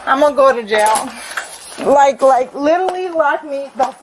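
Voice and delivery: loud, explosive threat with a bitter laugh; furious yelling. Real, not acted. Drunk woman yelling at police she'll go to jail, furious. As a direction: yell that you're about to snap. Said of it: "you're being too loud".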